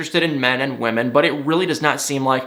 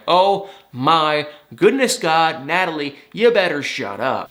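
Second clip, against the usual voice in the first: exasperated scolding. Retold or imitated. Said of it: "I am just like".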